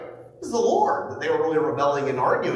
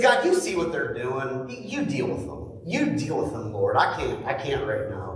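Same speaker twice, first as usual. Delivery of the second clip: weary prayer; 4 semitones lower than usual. Retold or imitated. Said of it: "They took it to God".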